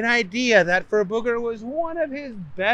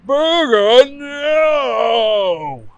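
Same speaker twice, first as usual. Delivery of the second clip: high desperate scream; 7 semitones higher, 9 dB louder, much slower than usual. Acted. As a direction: scream his name to stop him. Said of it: "he heard the scream".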